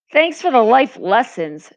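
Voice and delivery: dry, mocking thanks; lightly sarcastic brush-off. J J mocking Will's advice, lightly sarcastic. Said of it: "said J J sarcastically".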